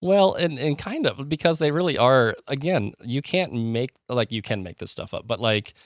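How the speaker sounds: real enthusiasm, pitch jumping high at the start; eager, geeky enthusiasm; geeking out. Real, not acted. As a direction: gush like an excited history geek. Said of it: "You can probably hear the enthusiasm, the, the sheer geekery, geeking out in my voice".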